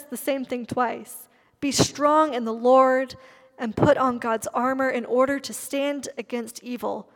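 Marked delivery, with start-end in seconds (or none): 1.6-7.1 emphatic. Shown as a demonstration. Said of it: "very emphatic".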